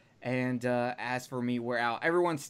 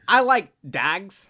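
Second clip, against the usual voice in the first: loud, drawn-out movie-line imitation; Brad Pitt in Snatch; 2 semitones higher, 5 dB louder, slower than usual. Quoting Snatch to friends, playful slow impression. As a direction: quote it slowly with a put-on accent. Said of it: "what Brad Pitt is saying in Snatch".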